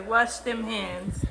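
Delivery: very slow, stretched words; drawn out slowly. Shown as a demonstration. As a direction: drag every word out. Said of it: "wash them hands, boy".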